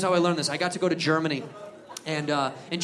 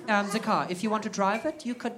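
timid repeat; 7 dB quieter than usual. Retold or imitated. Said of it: "And he goes".

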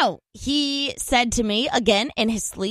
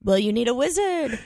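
a light imitation of the sleepy voice he used, dropping lower on the end; his sleep-talk voice; 3 semitones lower than usual. Retelling her husband's sleep-talk to a friend, lightly imitated sleepy voice. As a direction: lightly mimic a half-asleep husband's odd mumble. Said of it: "in that voice that he used".

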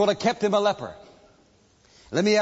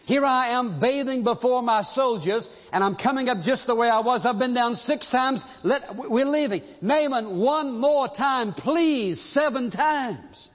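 begging soldiers; 4 semitones higher than usual. Retold or imitated. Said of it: "But they said".

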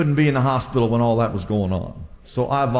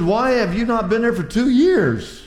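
teasing rebuke; 7 semitones higher than usual. Retold or imitated. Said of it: "I said".

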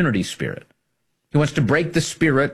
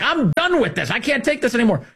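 mock exasperated outburst; 12 semitones higher than usual. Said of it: "people are like".

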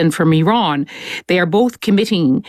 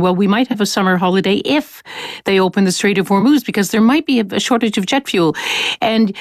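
lightly voiced parent, a bit higher; parent to children; 5 semitones higher, faster than usual. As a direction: mildly act out a parent explaining to kids. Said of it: "parents across the world who are telling their children".

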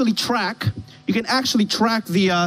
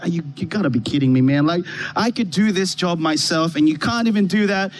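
grumbling; 4 semitones lower than usual. Retold or imitated. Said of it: "and I'm grumbling".

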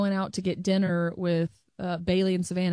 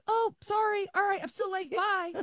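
rushed breezy apology; 10 semitones higher, 3 dB quieter than usual. Retold or imitated. Hurried apology leaving.

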